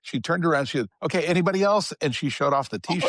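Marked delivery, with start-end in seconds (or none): 1.0-1.9 mock call to the crowd, raised pitch; very loud. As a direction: imitate her calling out to the room. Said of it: "very loudly said".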